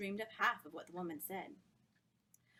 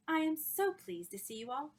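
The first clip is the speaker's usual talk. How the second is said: high, louder and thrilled; high thrilling voice; 8 semitones higher, 6 dB louder than usual. Acted. Miss Dartmoor welcoming the society, high and thrilled. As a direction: gush with delight at the guests. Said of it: "her high voice thrilling".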